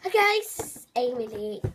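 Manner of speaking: lightly attempted YouTuber impression; half-hearted perky intro; Amy Lee. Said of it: "it's impossible to do Amy Lee".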